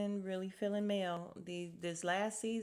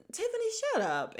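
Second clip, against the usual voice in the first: high, loud, fast telling-off; hammed-up exasperated yell; mock exasperated outburst; 5 dB louder, faster than usual. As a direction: snap it high and quick, playfully fed up.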